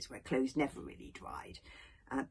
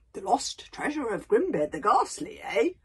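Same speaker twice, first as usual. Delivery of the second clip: proud booming chief; 5 semitones higher, 6 dB louder than usual. Acted.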